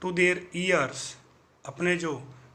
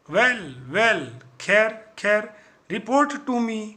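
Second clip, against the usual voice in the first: boss voice; 4 dB louder, much slower than usual. Acted. Villain boss demands report.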